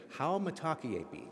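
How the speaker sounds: How mitakuyepi led for the congregation; Lakota greeting. Shown as a demonstration. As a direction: lead How mitakuyepi all together. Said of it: "let's say 'em all together".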